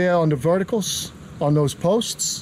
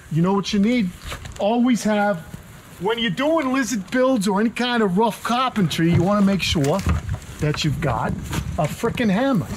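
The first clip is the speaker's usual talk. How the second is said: halting, lilting celebrity impression; Christopher Walken; 2 semitones higher than usual. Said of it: "It sounds like Christopher Walken".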